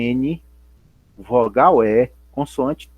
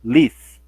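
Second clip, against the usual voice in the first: "Lis" on its own as a firm beat; isolated stressed syllable; 3 dB louder than usual. Shown as a demonstration. Teacher isolating the strong start of the word, "Lis" said with stress. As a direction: break off just the strong "Lis". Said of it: "o som mais forte é o início da palavra".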